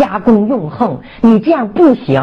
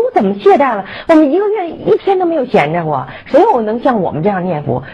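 higher-pitched protest at being faulted; indignant, unconvinced; 3 semitones higher than usual. Retold or imitated. Speaker retorting to the devotee who called them slack, indignant. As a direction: push back, offended at the criticism. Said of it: "我当时特别不以为然".

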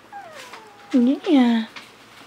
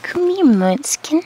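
coaxing call; 6 semitones higher, 6 dB louder than usual. Real, not acted. Coaxing a baby animal close.

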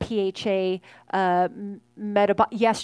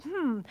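thinking hum; 7 semitones higher, 4 dB quieter than usual. Retold or imitated. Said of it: "when you're like".

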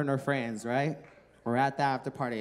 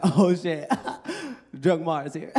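put-on drunk hype; 5 dB louder, slower than usual. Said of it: "I'm like".

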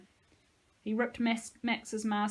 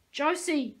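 calling out, higher and louder; cried out; 6 semitones higher, 5 dB louder than usual. Acted. Nico cries out after the fleeing Josie. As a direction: call after her as she runs. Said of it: "Nico cried".

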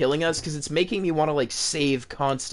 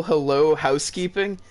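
mock housekeeping call. Shown as a demonstration. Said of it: "when I say".

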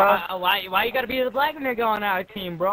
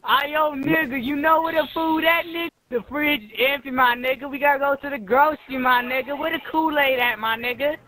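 mock street voice; 3 semitones higher than usual. Mocking teammates in a put-on street voice. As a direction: keep hamming up the caricature. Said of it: "I'll speak a little black now".

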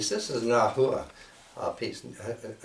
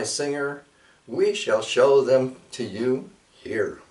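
measured, solemn poetry reading; poem recital; 3 dB louder than usual. Acted. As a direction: read the old poem with ceremony. Recites a translated Nahua poem.

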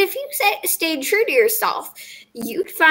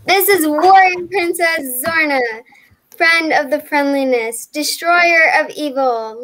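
put-on proud kid. Sweetie proudly presents her doll.

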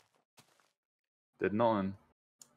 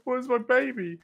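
squeaky high voice; 13 semitones higher, slower than usual. Acted. High squeaky call in game.

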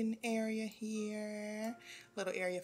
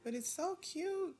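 cooing gush; 11 semitones higher than usual. Real, not acted. Touring the party venue.

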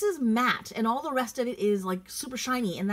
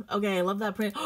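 ordinary talk

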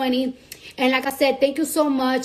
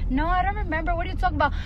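lightly voiced dismissive friend, higher; mock clueless friend; 4 semitones higher, faster than usual. Friend denying a shared memory, lightly mocked cluelessness. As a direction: play innocent to make the other look stupid. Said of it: "when she try to make you fucking look stupid".

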